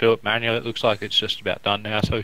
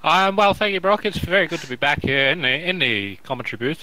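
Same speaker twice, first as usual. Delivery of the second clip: a light, higher 1950s broadcaster voice; old-timey announcer; 4 semitones higher than usual. Pretend. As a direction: put on a prim old newsreel commentator. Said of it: "I don't know why I'm talking like this".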